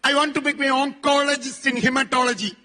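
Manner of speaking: each word laid down slowly, like a vow; slow and deliberate. Retold or imitated. Speaker to audience, quoting the girl's dream, slow and deliberate. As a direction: spell out the dream slowly and firmly. Girl's purpose quoted with weight.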